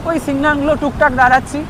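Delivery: talking through a helmet visor; muffled voice on a moving bike; muffled inside a helmet. Real, not acted. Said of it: "helmet পরে আছি".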